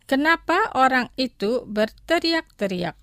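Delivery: careful, measured model phrase; slow pronunciation. Shown as a demonstration. Teacher models vocabulary for listeners to repeat, slowly. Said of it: "Los pronunciaré lentamente".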